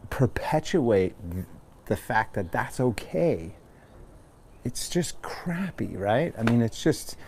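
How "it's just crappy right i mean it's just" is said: halting, hushed and choked up; getting emotional. Real, not acted. Talking to the class about oppression, choked up. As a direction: let the feeling catch in the throat, barely voiced. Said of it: "Sorry to get emotional".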